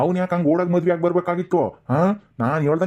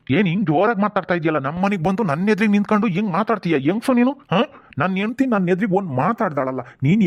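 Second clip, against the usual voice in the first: rising angry pitch, climbing higher to a sharp peak; angry rebuke; 4 semitones higher than usual. Acted. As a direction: scold her, building as you go. Drunk father rebukes the woman.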